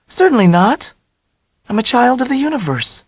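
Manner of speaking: put-on high, bright-spirited young woman voice; breezy Dell. A narrator's reading. Dell's voice, much higher.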